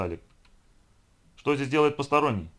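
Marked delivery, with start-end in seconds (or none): 1.4-2.5 wet bubbling voice, raised; gurgling alien voice. Acted. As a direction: gurgle the words out. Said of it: "пробулькал один из приближающихся".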